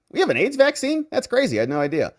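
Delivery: high, sarcastic fake amazement; wide-eyed mock wonder, high; mock surprise. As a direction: pretend to be amazed, pitch up. Mock amazement at vaccine claim.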